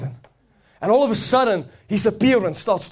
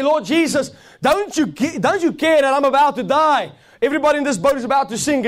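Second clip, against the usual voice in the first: panicked plea; 5 semitones higher than usual. Acted. Disciple panics in storm.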